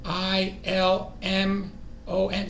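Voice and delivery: slow, letter by letter; spelling out slowly. Shown as a demonstration. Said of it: "So it's T".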